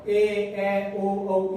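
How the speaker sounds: long, sung-out vowel sounds; ए, ए, ओ, औ each held long and sung; drawn-out vowels. Shown as a demonstration. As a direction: stretch each vowel to show its length. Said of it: "इनमें तो लग ही रहा है".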